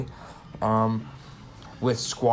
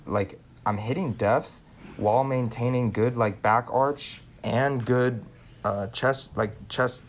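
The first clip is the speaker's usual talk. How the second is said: sore jaw; slower than usual. Real, not acted. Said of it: "Sorry, I can barely talk".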